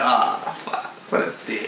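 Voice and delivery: low, hushed self-reproach; sinking, under-the-breath regret; retold guilt. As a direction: drop it to a quiet aside to yourself. Retelling guilt at lying to girlfriend.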